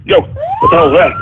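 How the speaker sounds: sudden very high, alarmed yelp; startled shriek. Acted. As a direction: jump out of your skin. Startled by a swatting prank.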